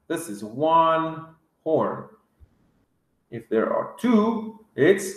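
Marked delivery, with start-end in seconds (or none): 0.1-2.0 "one" leaned on in a slowed sentence; slowly, leaning on "one"; slow, stressed one. Shown as a demonstration.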